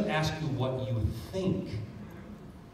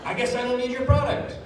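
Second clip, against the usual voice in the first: sarcastic prospect; 10 semitones higher than usual. Retold or imitated. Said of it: "if Annika hears that, says".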